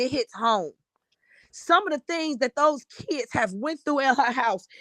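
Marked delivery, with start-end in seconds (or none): 0.0-0.7 a real whisper, softer; hushed whisper. Real, not acted. Confiding to viewers why it hurts, whispered. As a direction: breathe it out as a whisper. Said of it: "I'm very sentimental about this situation".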